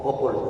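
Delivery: Popol with a clear final L; don't drop the L at the end of Popol; spelling out Popol for the class; final L pronounced. Shown as a demonstration. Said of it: "Agréguenle la L".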